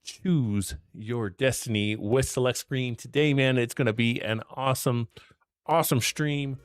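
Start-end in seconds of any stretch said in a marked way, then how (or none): 0.0-2.9 slow, dramatic movie-trailer read; announcer voice. Acted. Dramatic channel catchphrase.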